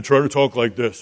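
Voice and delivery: lightly put-on manly voice; a hint of a deep-voiced man. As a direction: talk like a manly older brother. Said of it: "manly voice like Esau would".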